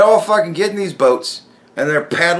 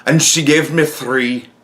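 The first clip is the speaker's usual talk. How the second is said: mock wistful; 4 semitones lower, slower than usual. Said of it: "he wistfully goes".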